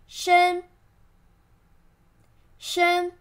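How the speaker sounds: 申 high and level; flat tone. Shown as a demonstration. Teacher asking learners to read after her, level tone on 申. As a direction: hold 申 on one steady high pitch. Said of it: "flat tone".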